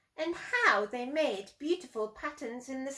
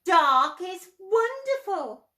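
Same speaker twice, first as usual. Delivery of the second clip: quoting the man; 6 semitones higher, 7 dB louder than usual. Retold or imitated. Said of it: "and he said".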